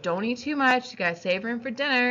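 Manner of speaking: imitating a mom laying down a rule; a hint of a nagging mother; mom's warning. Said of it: "My mom would be like".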